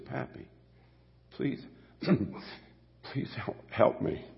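soft, half-voiced plea of a little girl; lightly voiced pleading granddaughter; pleading child. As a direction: beg gently like a small child.

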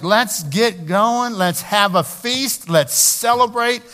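rally the crowd to celebrate; excited celebration. Acted. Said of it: "he was like".

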